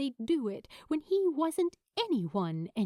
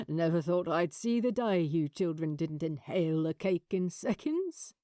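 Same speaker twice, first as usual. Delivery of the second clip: lightly voiced older man, gently teasing; teasing old father; 2 semitones lower than usual. The father to the grown children, a gentle tease. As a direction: tease the kids fondly.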